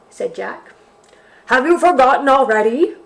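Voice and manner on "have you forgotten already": loud bawling bear. Acted. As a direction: bawl it out in exasperation. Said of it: "bawled the bear".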